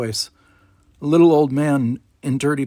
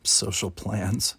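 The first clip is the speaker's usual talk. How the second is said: wry thought; 3 semitones lower, 5 dB quieter, much slower than usual. Acted. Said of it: "thought Geordi".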